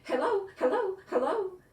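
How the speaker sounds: very high, loud, with a jittery laugh; nervous greeting. A narrator's reading. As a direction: squeak a nervous laughing hello. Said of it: "Jitterbug said nervously".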